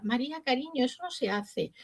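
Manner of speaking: soft, patient teacher voice; a mild imitation of calm tenderness; gentle scolding. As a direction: coax the child softly. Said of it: "Mañana voy a venir yo así, no voy a gritar".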